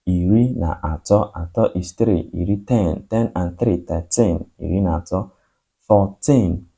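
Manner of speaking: counting drill. Shown as a demonstration. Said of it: "Let's go to class".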